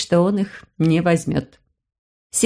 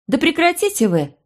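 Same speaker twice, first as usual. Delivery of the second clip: much higher pleading shout; 10 semitones higher than usual. A narrator's reading. Blair calling the bickering adults to order, high shout. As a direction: cry out to make them stop. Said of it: "крикнула".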